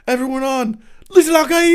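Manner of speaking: high, full-volume rallying yell; hammed-up top-of-the-lungs scream; screamed war cry. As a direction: imitate a zealot rousing troops. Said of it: "Screaming it at the top of his lungs".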